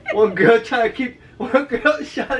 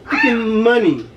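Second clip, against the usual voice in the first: outraged shout; slower than usual. Real, not acted. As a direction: spell out the outrage, slowly. Outraged at the drone's battery.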